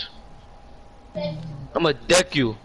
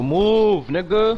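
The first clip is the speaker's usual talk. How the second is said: pitched-up loud demand; yelling; 7 semitones higher, 3 dB louder, much slower than usual. Real, not acted. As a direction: shout it impatiently. Yelling at teammate in game.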